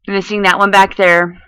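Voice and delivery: talking around fingers in mouth. Real, not acted. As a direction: speak with fingers in your mouth. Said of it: "I'm trying not to talk with my fingers in my mouth".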